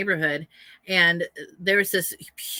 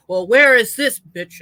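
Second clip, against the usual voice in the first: angry demand; 8 dB louder, slower than usual. Retold or imitated. Aggressive neighbor quoted.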